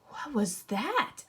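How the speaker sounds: put-on slow, wondering little girl's question; puzzled girl. Little Red Riding Hood asking the wolf, slow and puzzled. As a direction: ask slowly, a bit puzzled. Girl asks, voiced slowly.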